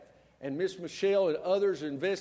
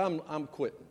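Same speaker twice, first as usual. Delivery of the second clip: softer, fast sulky mumble; sulky quitting; 5 dB quieter, faster than usual. Retold or imitated. Pastor telling his wife he is quitting, sulking. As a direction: pout it out like a sulking kid. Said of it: "I said".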